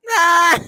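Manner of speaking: short, high imitated yell; mock half-hearted roar. Mocking his yell against eye of the tiger, mock half-hearted roar. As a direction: mimic an unconvincing movie holler. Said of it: "he's just kinda like".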